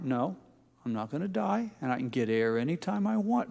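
soft self-reassurance; settling down. Acted. Swimmer settles the little voice down, softly reassuring. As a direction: talk yourself down quietly. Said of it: "settle that little voice down".

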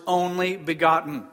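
"only" leaned on, falling through "begotten"; emphasis on only begotten. Shown as a demonstration. Preacher to congregation, stressing "only begotten". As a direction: lean into "only begotten" as the key words. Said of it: "The major emphasis in this entire sentence".

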